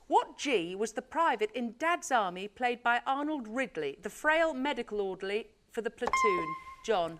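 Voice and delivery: bright quiz host read; game show host. Acted. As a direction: announce it like a TV quizmaster. Quiz host reading the question.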